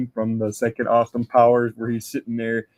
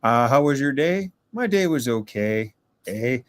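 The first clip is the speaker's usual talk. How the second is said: odd Canadian-style voice. Acted. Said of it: "I've never heard him talk quite like that".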